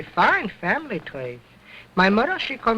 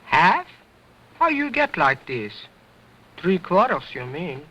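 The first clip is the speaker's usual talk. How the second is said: cheeky dummy voice; 4 semitones lower than usual. Acted. Dummy Otto answers ventriloquist.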